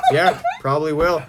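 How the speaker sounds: understated, noncommittal imitation with amusement; unenthused agreement. Imitating Justin hearing about the game, unenthused. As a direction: shrug off the excitement. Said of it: "he's like".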